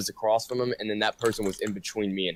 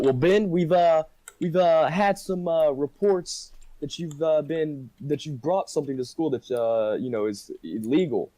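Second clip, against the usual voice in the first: principal's voice; 6 semitones higher than usual. Retold or imitated. Principal confronting Ben over something illegal, higher and halting. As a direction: play the hesitant principal, stretching each uh.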